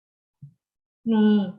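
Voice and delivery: 你 said slowly with a dipping third tone. Shown as a demonstration. Teacher to class: slow model word. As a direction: stretch out 你 for learners. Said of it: "means you".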